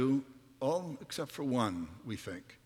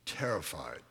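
hushed dread; 6 semitones lower, 7 dB quieter than usual. Acted. Preacher hushing the word for frightened disciples, soft. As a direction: drop low and soft on terrified.

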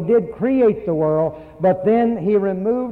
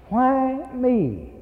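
higher, pleading cry of why me; imitating a hurt believer asking why me; plaintive why me; 7 semitones higher than usual. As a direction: act out a wounded complaint. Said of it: "we begin to ask".

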